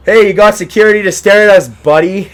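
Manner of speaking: a mock frat boy gloats that security is staring; stupid frat boy. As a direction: gloat at the guy like a dumb jock. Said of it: "Just acting like some stupid frat boy".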